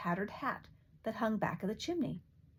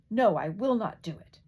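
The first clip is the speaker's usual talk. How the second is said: loud stubborn bawl, louder; 7 dB louder than usual. A narrator's reading. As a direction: bawl the refusal at the door. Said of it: "began bawling as loud as he could".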